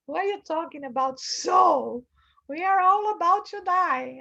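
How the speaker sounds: incredulous panic. Retold or imitated. Panicked man answers mentor.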